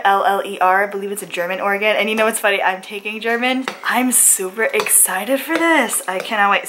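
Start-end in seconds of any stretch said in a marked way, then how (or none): 2.6-6.7 talking with a mouthful of cereal; eating cereal. Real, not acted. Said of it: "Sorry, I'm just eating cereal".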